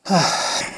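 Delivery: soft, unvoiced sigh. Real, not acted. Speaker pausing before a story, soft sigh. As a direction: let out a quiet breath.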